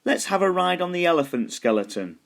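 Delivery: high, excited little skeleton; a small skeleton wanting a ride. A narrator's reading. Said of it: "the little skeleton said".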